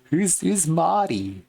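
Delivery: high, slow goblin question. Acted. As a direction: draw it out high like a puzzled goblin. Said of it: "Gotta get the Cyrax impression down".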